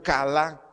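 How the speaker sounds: kalá with the final A stressed; stress on second A. Shown as a demonstration. Preacher teaching a Hebrew word, kalá stressed on the final A. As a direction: put the weight on the last A of kalá. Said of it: "con acento en la segunda A".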